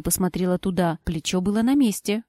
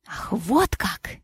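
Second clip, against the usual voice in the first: sarcastic aside; 4 dB quieter, much slower than usual. Acted. Sarcastic whisper.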